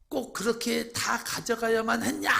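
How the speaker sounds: high, loud aggrieved film shout; 김래원 movie line. Retold or imitated. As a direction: shout it like the wronged hero in the film. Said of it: "그가 이렇게 말하더라고요". (김래원처럼 울분 섞인 외침)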